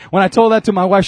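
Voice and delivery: normal talking voice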